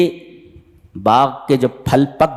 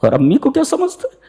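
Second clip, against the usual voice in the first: rising, much higher mock on the second half; mocking rude youth; 3 semitones higher than usual. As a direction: toss it off like a cheeky boy. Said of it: "तुम ये बोलते हो". (ऊँची आवाज़ में नौजवान की नकल)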